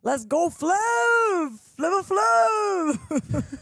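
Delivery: loud Boston sports-fan shout; Boston accent. Acted. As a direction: yell it like a Fenway fan. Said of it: "you gotta do your Boston shout out".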